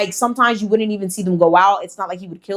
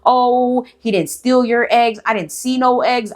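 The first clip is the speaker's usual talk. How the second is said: lightly voiced mom, a bit higher, brushing it off; mock denying mom; 4 semitones higher, slower than usual. Mom denying her son stole the eggs, mock dismissive. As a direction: play the mom waving off the complaint. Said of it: "especially the mom".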